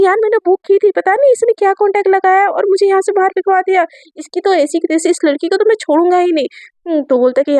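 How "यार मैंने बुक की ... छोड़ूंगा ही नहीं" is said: heated, higher voice, fast by the end; angry rant. Acted. Ayan fuming to Aadhya outside the restaurant, angry. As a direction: vent about the girl who got you kicked out. Ayan fumes after being thrown out.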